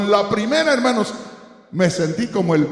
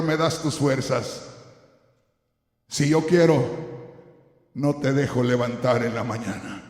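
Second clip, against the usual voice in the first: voice of God; 4 semitones lower than usual. Retold or imitated. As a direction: speak as God, lower and hushed. Preacher voices God speaking.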